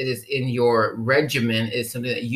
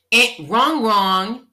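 game-show buzzer; 6 semitones higher, 4 dB louder, much slower than usual. Real, not acted. Buzzer-style rejection of option.

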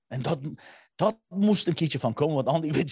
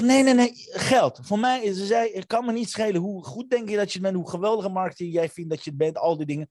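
imitating his wife; 6 semitones higher than usual. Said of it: "ze zegt".

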